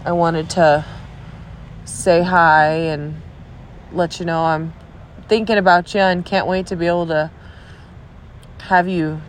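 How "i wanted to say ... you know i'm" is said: stuffy nose. Real, not acted. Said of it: "oh, I'm all stuffy".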